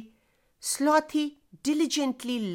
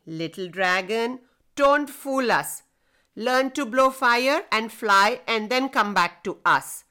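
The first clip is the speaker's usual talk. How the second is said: gentle teasing. Acted. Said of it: "they said teasingly".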